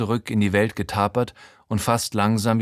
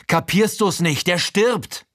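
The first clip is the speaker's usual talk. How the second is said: panisch; 8 semitones higher, slower than usual. Acted. Panischer Streit mit Frankie.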